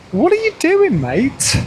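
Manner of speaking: high, loud call to a reckless driver; shouting at a driver. Real, not acted. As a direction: yell it out, half amused.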